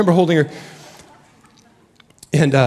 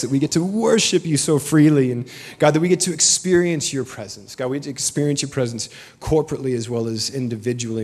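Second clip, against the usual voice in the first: congregational prayer. Acted. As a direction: lead the church in heartfelt prayer.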